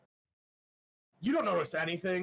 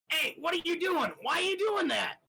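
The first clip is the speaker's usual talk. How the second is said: much higher, louder, startled shout; a strange voice bursting out of your own mouth, alarmed; alarmed possessing voice; 5 dB louder than usual. Acted. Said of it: "you hear this start talking out of your mouth".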